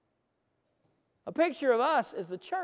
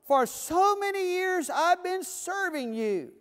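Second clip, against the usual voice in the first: resentful complaint; 2 semitones higher than usual. Retold or imitated. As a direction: complain bitterly to your father. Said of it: "The older brother answered and said".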